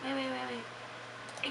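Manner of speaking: talking with a mouth full; words round a bite of food. Real, not acted. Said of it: "I'm eating".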